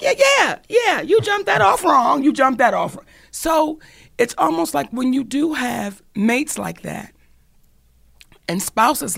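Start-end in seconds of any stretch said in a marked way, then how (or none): 0.0-3.1 inner voice. Retold or imitated. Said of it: "the little voice be like".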